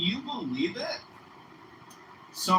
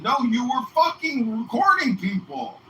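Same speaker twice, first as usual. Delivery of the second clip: a louder, higher imitation of the bouncer insisting; insistent bouncer; 8 semitones higher, 8 dB louder than usual. Bouncer insists he was recording, imitated loud and insistent. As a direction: push back hard, a bit hammed up.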